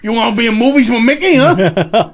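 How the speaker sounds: Bartlett voice. Retold or imitated. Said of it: "Why do you sound like Bartlett there?".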